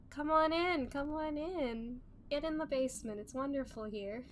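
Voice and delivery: high playful welcome; cute anime streamer. Real, not acted.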